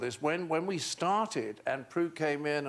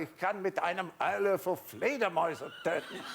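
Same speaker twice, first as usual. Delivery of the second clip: mock German; 3 semitones higher than usual. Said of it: "So I said".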